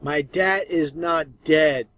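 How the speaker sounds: slow mocking repeat. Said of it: "They're even mocking the viewers".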